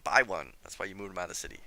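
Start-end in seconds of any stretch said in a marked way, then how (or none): 0.0-0.5 exasperated command. Real, not acted. Scolding himself during gameplay.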